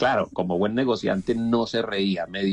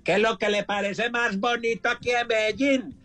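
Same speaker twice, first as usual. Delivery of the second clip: paisa asking; 10 semitones higher than usual. Retold or imitated. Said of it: "en Medellín me dicen".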